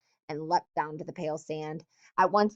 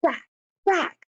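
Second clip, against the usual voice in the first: high, loud mocking echo of the name; bitter mimicry; 12 semitones higher, 7 dB louder than usual. Jack mocking Ralph's call at the assembly, bitter mimicry. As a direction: throw his own call back at him with scorn. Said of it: "Jack's voice sounded in bitter mimicry".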